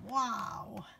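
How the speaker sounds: breathy whispered wonder; whispered wow. Shown as a demonstration. Reader explaining the old phrase, whispered awe. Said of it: "That means, like".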